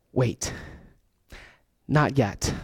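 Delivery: whisper-close comfort to the grieving; gentle hush. Acted. Jesus' message, quiet and tender.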